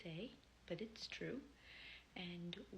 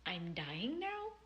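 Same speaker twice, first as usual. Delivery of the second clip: put-on French accent; 5 dB louder, slower than usual. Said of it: "in a French accent".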